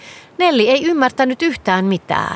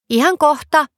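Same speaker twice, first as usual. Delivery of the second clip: squeal; 7 semitones higher than usual. A narrator's reading. Girl Nelli answering her father, gleeful squeal. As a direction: chirp it back gleefully. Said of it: "Nelli hihkaisi".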